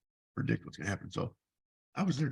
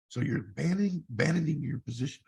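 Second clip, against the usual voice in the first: louder accusing tone from the boss; 3 semitones higher, 5 dB louder than usual. Retold or imitated. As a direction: pin the blame on him.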